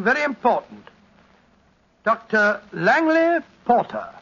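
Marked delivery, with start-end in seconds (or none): 2.0-4.1 slow, measured announcement of a guest; formal introduction. Real, not acted. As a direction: announce the name slowly, as a handover. Formally hands over to the guest.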